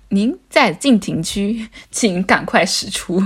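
slow, even recorded-prompt voice; automated announcement. Retold or imitated. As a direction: read it like an app warning. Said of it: "要么就是说".

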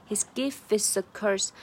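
"gift is" run together as "giff is"; "gift" losing its T into "is"; swallowed T. Shown as a demonstration. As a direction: drop the T of "gift". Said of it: "把gift的T给吞".

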